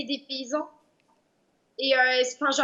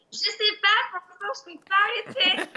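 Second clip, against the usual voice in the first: higher, laughing elf voice; 6 semitones higher than usual. Pretend. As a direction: squeak it out through a giggle. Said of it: "Bien rattrapé".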